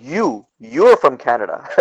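slow, stressed "You", imitating disbelief; disbelieving. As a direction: mimic a doubting clerk, leaning on "You". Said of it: "she's having a hard time believing".

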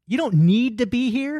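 can't believe it, laugh it out slow; laughing disbelief. Retold or imitated. Soldier to the beer guy, slow laughing disbelief. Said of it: "turns to me and said".

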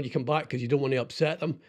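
ordinary talk

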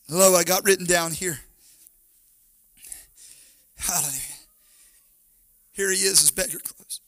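soft, low, with long pauses; hushed preaching. Real, not acted. Preacher telling of the beggar who doesn't care, hushed. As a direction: drop right down and let each phrase hang. Sudden hush after the shouted climax.

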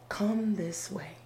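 slow, soft beckoning; beckoning light. Acted. Guiding light calling the climber, slow soft beckoning. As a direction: draw them gently onward, slow and hushed. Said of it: "have a light saying".

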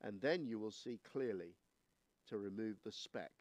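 measured, solemn Bible reading; scripture reading. Acted. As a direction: read the verses with weight and care. Reads the scripture passage aloud.

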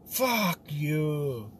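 lightly put-on, inaccurate Russian accent; botched Russian accent. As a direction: dismiss it in a badly faked Russian accent. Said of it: "giving him the wrong accent".

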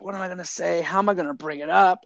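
mock-anxious questions to himself; freaked out. Teacher dreading the talk with his buddy, mildly freaked out. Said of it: "I'm freaked out".

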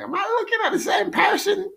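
high, incredulous question; mock disbelief. Telling a friend how shocked he was, high incredulous question. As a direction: ask it like your eyes are lying to you. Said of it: "I'm like".

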